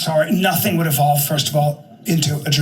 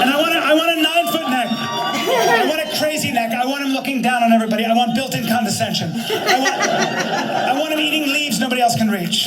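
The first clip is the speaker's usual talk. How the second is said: Stan designing a giraffe; 2 semitones higher than usual. Retold or imitated. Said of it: "somebody like my friend Stan".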